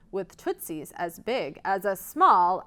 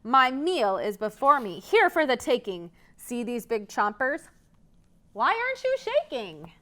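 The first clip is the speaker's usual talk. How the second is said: scratchy troll; 3 semitones higher than usual. Acted. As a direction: taunt the goat hungrily. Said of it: "her scritchy, scratchy voice".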